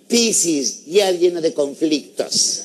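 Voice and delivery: lightly voiced radio horoscope reader; slow, drawn-out horoscope warning; a hint of a portentous radio astrologer. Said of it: "sintonizas un marica en la radio que te diga".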